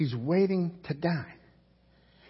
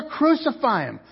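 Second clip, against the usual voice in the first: crowd shout; 7 semitones higher than usual. Acted. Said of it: "they shouted all the more".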